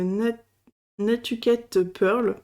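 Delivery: halting English name in a French accent; accent français en anglais. Real, not acted. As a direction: stumble into the English with French sounds. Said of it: "j'ai un accent anglais, euh, magnifique". (nom anglais hésitant, avec l'accent français)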